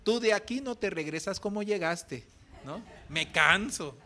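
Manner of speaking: a hint of a stern pastor; lightly voiced firm promise. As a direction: pastor refusing to let him go, mildly stern. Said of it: "Y le dijo".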